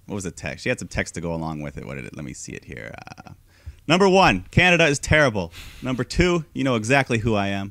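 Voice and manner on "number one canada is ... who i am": reading Lacey's post. Retold or imitated. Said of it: "Lacey Evans posted".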